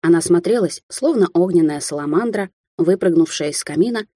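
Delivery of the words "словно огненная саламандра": plain reading voice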